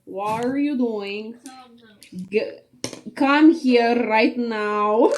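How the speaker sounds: light mock Russian mother, slow rolled R; imitating a Russian mom scolding, slowly; a hint of a strict Russian mother calling her child; mom's Russian accent. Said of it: "how does she say".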